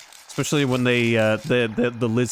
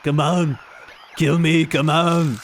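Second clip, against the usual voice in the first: taunting shout; 5 semitones higher, 4 dB louder, slower than usual. Real, not acted. Taunting enemies during a fight.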